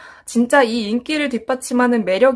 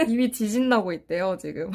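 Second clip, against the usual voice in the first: laughing; 7 dB quieter than usual. Real, not acted. Host laughing at the delay.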